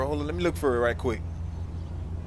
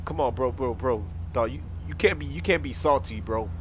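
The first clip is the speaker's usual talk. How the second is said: pleading; 6 semitones lower, 8 dB quieter than usual. Acted. Arrested driver pleads with officer.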